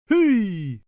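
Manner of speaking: high, sharp little shout; a jester's sudden yell. A narrator's reading. Helper stomping his feet mid-dance, high shouted hey. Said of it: "stomp his feet and shout".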